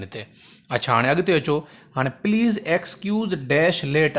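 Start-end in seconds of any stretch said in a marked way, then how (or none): 2.3-4.2 very drawn-out reading; teacher dictating slowly; slow dictation. Shown as a demonstration. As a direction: read the blank sentence slowly. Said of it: "हाणे हे बि तमामु important अथव".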